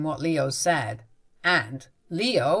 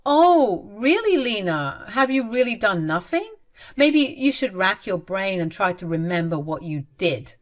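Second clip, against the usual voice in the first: mocking taunt. Narrator taunts mother-in-law.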